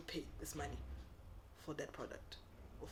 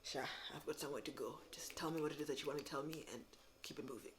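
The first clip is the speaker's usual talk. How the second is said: softer, half-whispered dismissive seller; quiet mock impatience; impatient brush-off; 2 semitones lower, 5 dB quieter, faster than usual. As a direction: rush the customer off, mock uninterested. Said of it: "acting like".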